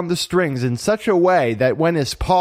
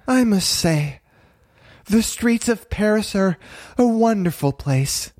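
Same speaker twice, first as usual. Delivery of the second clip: high, dreamy kitten voice; 7 semitones higher than usual. A narrator's reading. Marie admiring the pink collar, dreamy. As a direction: let it float up in a daydream. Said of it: "Mary said dreamily".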